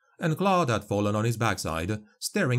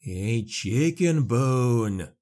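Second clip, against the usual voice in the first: reverent; much slower than usual. A narrator's reading. Peasant repeating Claude's words in slow awe. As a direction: savour each word as if holy. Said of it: "with reverence in his voice".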